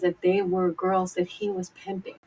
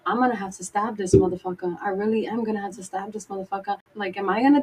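panicked inner thoughts; faster than usual. Retold or imitated. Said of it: "I'm like".

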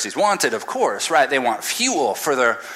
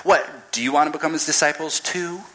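sassy retort; 4 semitones higher, faster than usual. Retold or imitated. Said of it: "the ultimate in sass".

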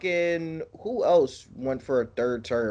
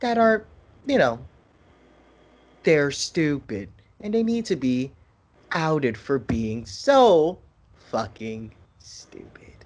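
kindergarten teacher voice. Pretend. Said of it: "I'm talking like a fucking kindergarten teacher".

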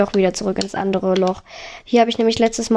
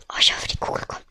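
whisper; 7 dB quieter, faster than usual. Real, not acted. Hoping a trap fires in game.

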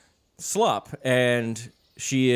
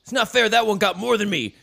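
high, squeaky whining badger; whiny badger; 10 semitones higher, 4 dB louder than usual. Little badger complaining to the chipmunk, high and whiny. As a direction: whine like a cheated little animal. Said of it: "and he's like".

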